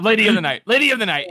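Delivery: mock emphatic "Lady of the night"; mocking the correction. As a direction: mimic the prim correction. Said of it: "You kept correcting the whole time".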